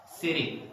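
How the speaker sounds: "city" with a quick soft D for the T; tapped American T in "city". Shown as a demonstration. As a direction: say "city" like "siddy", American style. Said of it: "change it into D sound".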